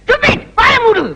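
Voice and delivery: high, sudden outburst at an insult; angry scolding. Acted. Doctor silencing the assistant who mocked him, angry scolding. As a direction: cut him off with a high-pitched rebuke.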